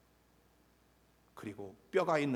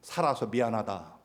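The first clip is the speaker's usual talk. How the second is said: imitating an upset mother's bitter jibe; a mild mock of sulky self-pity; sarcastic; 5 dB louder than usual. Neighborhood mother scolding her kids, sarcastic. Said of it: "그렇게 비꼬고 조롱하는".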